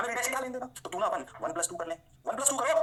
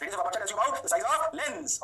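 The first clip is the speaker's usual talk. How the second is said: slow dictation again; 3 semitones higher, much slower than usual. Shown as a demonstration. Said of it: "और यहाँ radius of aperture tells you about the size of lens।".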